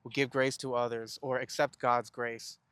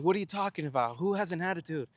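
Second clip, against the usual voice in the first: mildly mad retort; 4 semitones higher than usual. Retold or imitated. Son re-enacting an argument with his mom, mildly mad retort. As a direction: act out arguing back, offended but not shouting. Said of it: "And I got mad at her".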